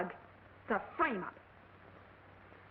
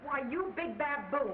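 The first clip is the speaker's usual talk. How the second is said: slow, sassy scolding; screwball comedy dame; slower than usual. Acted. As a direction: drag it out with mock scorn. Woman scolds the detective playfully.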